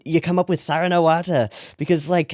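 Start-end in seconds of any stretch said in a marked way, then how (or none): 0.6-1.5 "Sara na Wata" in a light Irish accent, open a vowels; the show title in a hint of Irish. Shown as a demonstration. Vlogger repeats the title in her Irish accent. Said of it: "especially a strong Irish accent".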